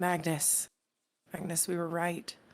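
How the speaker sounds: hushed half-whisper, close up. Playing a small character who taps a companion and half-whispers: half-whispering in character. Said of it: "I'll whisper".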